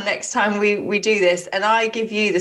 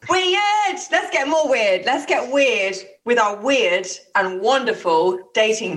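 hammed-up intro; slower than usual. Hyped-up segment intro to dating news.

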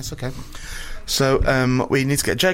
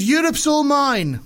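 high, drawn-out comic villain; hammed-up dictator claiming his prize; Putin; 9 semitones higher, much slower than usual. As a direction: stretch it out high, like a mock tyrant. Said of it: "I'll be Putin then".

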